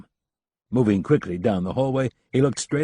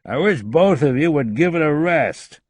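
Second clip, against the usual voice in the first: tired voice; 8 semitones higher, 5 dB louder than usual. A narrator's reading. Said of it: "in a tired voice".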